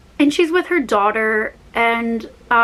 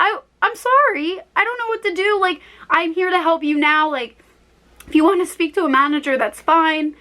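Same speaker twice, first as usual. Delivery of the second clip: flustered apology; 6 semitones higher than usual. Retold or imitated. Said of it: "I got so flustered".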